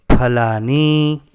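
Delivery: फलानी drawn out slowly, each syllable clear; slow model pronunciation. Shown as a demonstration. Teacher giving the plural form to the class, slow. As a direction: lay out फलानी slowly for learners. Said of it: "हम क्या कहेंगे?".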